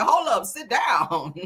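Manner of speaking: slow, drawn-out Hold up, sit down; quoting a rapper. Retold or imitated. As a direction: lay the lyric out slowly, savoring it. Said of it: "Ain't that what Kendra Lamar said?".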